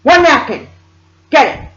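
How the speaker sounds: high, loud frantic mother impression; mock hysterical scolding, held slightly back; imitated screaming. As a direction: screech urgent orders as the panicked mother. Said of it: "she started screaming".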